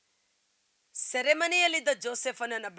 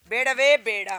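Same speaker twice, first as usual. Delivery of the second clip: loud, forceful no; emphatic loud refusal; 9 dB louder than usual. Real, not acted. Preacher to congregation rejecting other gods, loud and forceful. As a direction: slam the refusal down.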